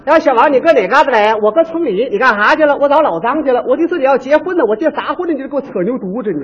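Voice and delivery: put-on lightly done Northeastern accent; two Shenyang girls bantering in a hint of Dongbei dialect; mild Northeastern Mandarin impression. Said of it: "我学您看看。 东北的啊".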